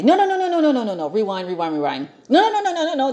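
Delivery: high, quick laughing no's. Real, not acted. Catching her own mistake in the story, laughing protest. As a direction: laugh and cut yourself off. Laughing correction of retold quote.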